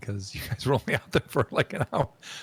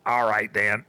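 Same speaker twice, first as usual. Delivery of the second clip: first try at dwarf voice; 8 dB louder than usual. Shown as a demonstration. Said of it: "I need to get a voice for her".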